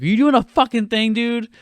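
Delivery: high-pitched incredulous jeer; mocking Dreyfuss quote. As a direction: ride the question up high. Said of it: "He's like".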